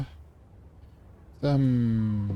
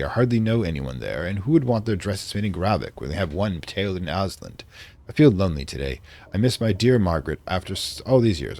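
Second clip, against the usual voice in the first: put-on light British accent for a diary entry; reading a diary in a mild British accent; vaguely British accent. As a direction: read it like a 1920s English diarist. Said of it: "I'm doing a vaguely British accent".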